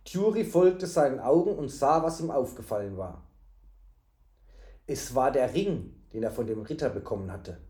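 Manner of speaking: measured storybook reading; story narration. A narrator's reading. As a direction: narrate the tale evenly.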